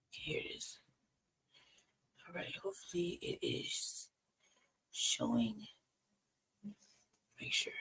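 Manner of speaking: whispering. Real, not acted. Streamer fiddling with screen setup.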